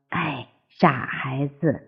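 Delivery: low, soft, slow fond sigh; amused fondness. A narrator's reading. Frog mother to her tadpoles, softly amused and fond. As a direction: chide the little ones softly and slowly. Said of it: "青蛙听了咯咯地笑起来".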